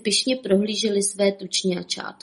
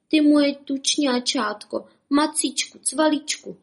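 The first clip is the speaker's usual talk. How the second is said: tender; 6 semitones higher than usual. A narrator's reading. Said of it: "šeptala".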